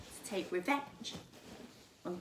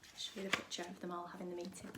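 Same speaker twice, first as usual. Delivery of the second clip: fast, breathy whisper to the listeners; whispered aside; 3 semitones lower, 11 dB quieter, much faster than usual. Real, not acted. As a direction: lean in and whisper quickly. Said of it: "aside to listeners while showing picture".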